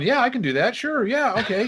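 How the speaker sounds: high, quick eager agreeing; keen to say yes to everything. Retold or imitated. Eager teen accepting every duty.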